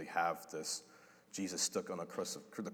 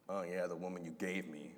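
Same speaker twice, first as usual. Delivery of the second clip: dismissive; 5 dB quieter than usual. Retold or imitated. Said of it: "Is it angry, egotistical, dismissive?".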